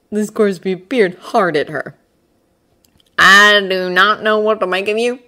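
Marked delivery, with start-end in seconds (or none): 3.2-5.2 frank, puzzled admission; honest. A narrator's reading. Man admits his puzzlement to the witch, honest. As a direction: admit it openly, leaning on the first word. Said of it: "he said quite honestly".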